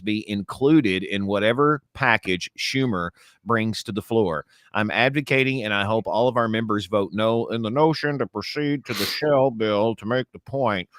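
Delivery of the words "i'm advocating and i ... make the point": a light, slowed take on McConnell; Mitch McConnell impression. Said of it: "I've been practicing on Mitch McConnell".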